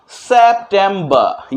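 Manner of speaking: "सितंबर" slowly as sep-tem-ba, no r at the end; British September. Shown as a demonstration. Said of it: "यहाँ मैंने अ भी लिखा है और र भी लिखा है".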